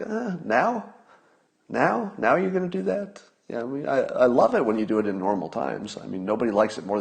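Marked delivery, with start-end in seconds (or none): 0.0-3.2 high, disbelieving repeated now?; incredulous now. Retold or imitated. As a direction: ask it in high disbelief, as if it can't be true. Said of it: "It's like".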